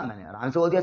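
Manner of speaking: normal talking voice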